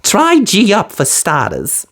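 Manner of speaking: high brisk fairy voice; quick and businesslike; fiery fairy. A narrator's reading. Fiery fairy asking Cinderella for mice, brisk. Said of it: "suggested the fairy godmother".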